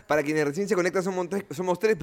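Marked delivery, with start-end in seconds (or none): 1.0-2.0 talking between sips; drinking vodka mid-sentence; while sipping a drink. Real, not acted. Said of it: "estoy tomando vodka influencer".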